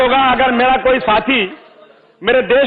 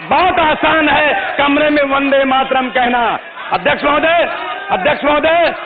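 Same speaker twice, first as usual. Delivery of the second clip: forceful, declaimed assembly speech; impassioned political oratory; 3 semitones higher than usual. Real, not acted. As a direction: press each challenge home to the house. (जोशीला राजनीतिक भाषण)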